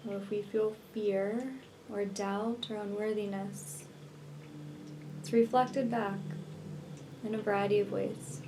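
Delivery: unhurried meditation voice with long pauses; guided meditation. Real, not acted. Healer leading listeners to visualize twin flame union, guided meditation. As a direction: guide the listener gently into relaxation, leaving space between phrases.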